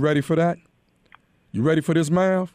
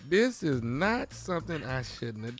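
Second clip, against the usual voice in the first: quiet regret; 7 dB quieter than usual. Retold or imitated. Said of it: "you say".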